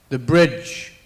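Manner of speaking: put-on a lightly done posh Scottish lady's accent. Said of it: "in this accent that's either posh Scottish or English".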